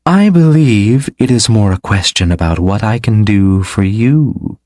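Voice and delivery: smug, teasing offer; smirking. Acted. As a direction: let the smirk be heard. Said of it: "the woman smirked".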